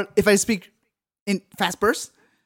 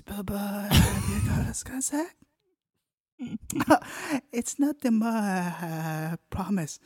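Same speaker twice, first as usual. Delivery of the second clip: put-on ASMR boyfriend. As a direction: murmur sweetly to a partner. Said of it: "remember to be very relaxing".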